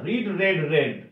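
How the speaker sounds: "রিড" with ee, "রেড, রেড" with short e; contrasting verb-form vowels. Shown as a demonstration. Teacher showing the irregular sound, ee in "রিড" then e in "রেড, রেড". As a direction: drill "রিড, রেড, রেড", changing ee to e. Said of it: "রিড উচ্চারণটা আলাদা".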